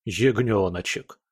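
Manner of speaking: mock repeat of ягнёночек, scornful snort; snorting mockery. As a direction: scoff at the word ягнёночек. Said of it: "фыркнул я".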